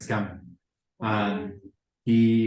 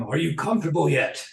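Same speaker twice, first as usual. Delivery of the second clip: raised, higher-pitched call; mock scream across room; 6 semitones higher than usual. Guy calling across the crowded room, mild acted yell. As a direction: holler it like someone across a room, half-strength. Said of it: "he just screams across the room".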